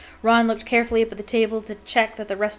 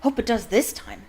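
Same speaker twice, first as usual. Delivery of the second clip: enthusiastic. Acted. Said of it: "said Harry enthusiastically".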